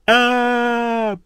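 high terrified screams for help; waking from a nightmare. Acted. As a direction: scream for help in sheer terror, slowly. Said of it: "Он проснулся в холодном поту".

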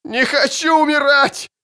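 намного выше и громче, на крике; заори от ужаса смерти; отчаянный вопль. Acted. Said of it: "заорал кто-то". (раненый в отчаянии орёт, что не хочет умирать)

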